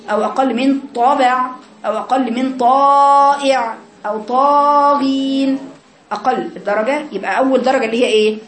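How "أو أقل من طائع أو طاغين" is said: طائع and طاغين sung out slowly with full emphasis; drawn-out heavy ṭa. Shown as a demonstration. Teacher singing out the fuller degrees of ta. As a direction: stretch the ط long and full. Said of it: "ما تبقاش أقل من طبع".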